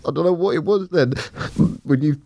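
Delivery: halting, tearful, starting high then faltering; real choked-up emotion. Real, not acted. Man apologising to his mate after being set off, choked up. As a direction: stop and start while fighting tears. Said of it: "that's made me emotional".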